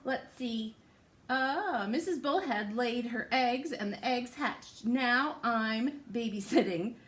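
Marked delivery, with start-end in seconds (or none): 1.3-6.9 lively, sing-song storybook reading; picture-book read-aloud voice; reading to children. Acted. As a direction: read it to little ones with big rises.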